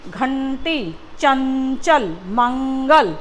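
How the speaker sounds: घंटी, चंचल, मंगल with a lingering n in the nose; nasal sound. Shown as a demonstration. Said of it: "इसका उच्चारण बच्चों नाक से होता है".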